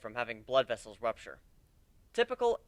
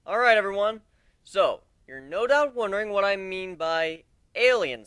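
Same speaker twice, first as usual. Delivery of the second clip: addressing crowd; 5 semitones higher, 7 dB louder than usual. Acted.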